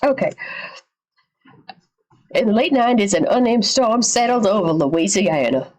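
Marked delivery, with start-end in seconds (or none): 2.3-5.7 a hint of a Louisiana accent; accidental Southern accent. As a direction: slip into a slight Southern accent while narrating. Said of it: "I don't know why that accent came out".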